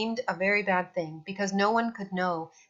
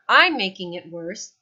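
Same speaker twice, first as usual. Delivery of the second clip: indignant retort; 7 dB louder than usual. A narrator's reading. Quarrel over the net.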